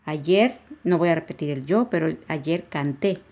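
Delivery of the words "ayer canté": "canté" stressed on the last syllable; slowed demo of "canté", accent on final é. Shown as a demonstration. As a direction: land on the -té of "canté". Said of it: "Y lleva acento en la E".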